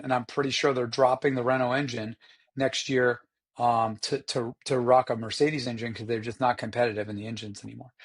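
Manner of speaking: raspy, worn-out throat; hoarse voice. Real, not acted. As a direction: talk through a hoarse throat. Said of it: "I sound like I've been, um, smoking cigarettes".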